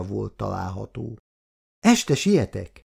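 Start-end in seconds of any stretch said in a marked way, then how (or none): 1.8-2.8 mild, higher-pitched slow call; calling after someone. A narrator's reading. Péter to his departing wife, lightly calling after her. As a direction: call after them, voice lifted a little. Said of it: "kiáltott még felesége után Péter".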